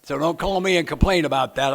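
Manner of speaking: a joking warning breaking into laughter; real laugh under the line. Real, not acted.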